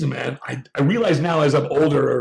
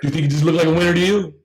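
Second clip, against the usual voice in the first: mother's sarcastic question; 2 semitones higher, 3 dB louder, faster than usual. Retold or imitated. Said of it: "this is my mother's language".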